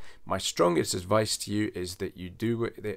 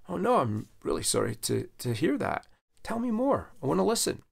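sympathetic apology; 8 semitones higher than usual. Shown as a demonstration. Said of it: "the first thing I'm gonna say is".

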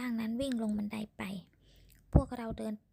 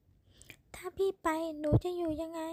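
tearful plea; 7 semitones higher, much slower than usual. A narrator's reading. Woman pleading in quarrel.

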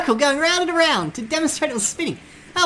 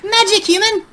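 Papyrus voice; 3 semitones higher, 3 dB louder than usual. Pretend. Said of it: "I'm the Great Trap Papyrus".

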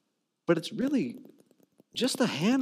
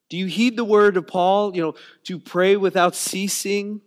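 preaching; 6 dB louder than usual. Real, not acted. Preaching climax.

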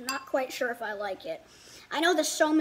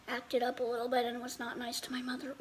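whispering; 6 dB quieter than usual. Real, not acted. Confessing bad behavior.

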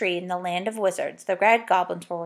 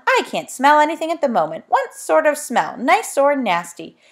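deaf saucepan man; 5 semitones higher, 5 dB louder than usual. Acted. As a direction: drag it out, baffled.

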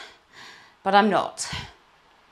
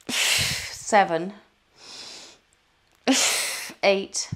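kettlebell reps; 3 semitones higher, 9 dB louder, much slower than usual. Real, not acted. Counting reps during kettlebell workout.

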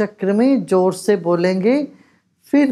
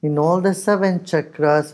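unhurried, measured meditation guiding; guided meditation; much slower than usual. Real, not acted. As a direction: lead them calmly, with long pauses between instructions. Leads a breathing meditation.

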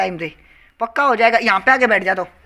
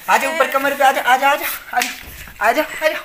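coaxing call; 4 semitones higher, 5 dB louder than usual. Real, not acted. Coaxing little brother onto his back.

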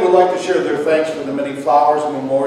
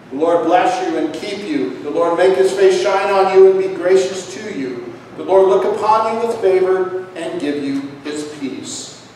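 benediction; 3 semitones higher than usual. Acted. Pronounces benediction.

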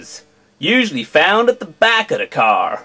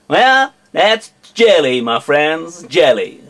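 American accent. Shown as a demonstration. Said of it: "an entire video in an American accent".

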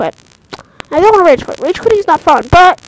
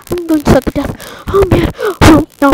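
near tears; 3 semitones higher than usual. Real, not acted.

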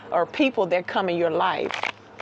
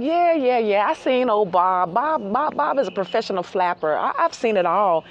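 unimpressed female bird; 3 dB louder than usual. Pretend. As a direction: wave him off like a jaded hen. She's like.

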